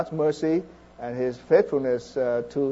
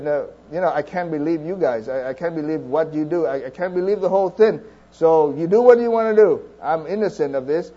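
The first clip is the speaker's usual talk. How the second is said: Pilate with disgust; 2 semitones higher, 4 dB louder than usual. Retold or imitated. Pilate to the crowd, washing his hands, disgusted and building louder. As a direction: spit out contempt for the crowd. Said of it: "he said that with despise".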